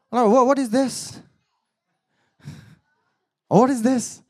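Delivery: high-pitched mock amazement; astonished reaction. Man reacting to the sister unlocking Priyanka's phone, astonished. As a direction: react startled, as if caught out.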